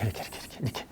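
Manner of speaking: whispered 이렇게 repeated under the breath. Shown as a demonstration. Teacher whispering as she traces the chart. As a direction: hush each 이렇게 while pointing along.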